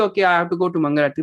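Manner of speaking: low, rushed, dutiful mumbled quote; dutiful routine. Acted. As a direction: rattle it off like a chore. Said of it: "not do them for the sake of doing".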